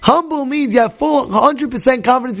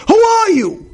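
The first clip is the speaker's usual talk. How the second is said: angry shout; 13 semitones higher, slower than usual. Retold or imitated. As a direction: bellow "Who are you?" like an outraged husband. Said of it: "now he's flipping out".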